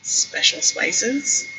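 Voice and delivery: soundless mouthed words, slow; mouthed silently. Acted. Narrator mouths silently to Darien across the kitchen. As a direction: mouth it with no voice, slowly. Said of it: "mouth silently".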